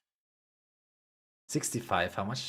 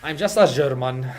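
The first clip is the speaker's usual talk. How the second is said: mock loud joke; 3 semitones higher, 9 dB louder than usual. Joking reply about his nationality.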